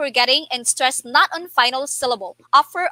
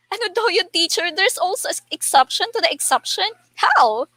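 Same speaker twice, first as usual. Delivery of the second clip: puzzled student; 5 semitones higher than usual. Pretend. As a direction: lightly mimic a puzzled student, pitched higher. Voices a puzzled student questioning teacher.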